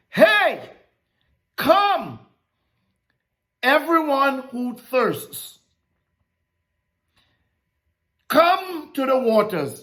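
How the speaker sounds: ringing divine invitation; voicing God. Preacher voicing God's call.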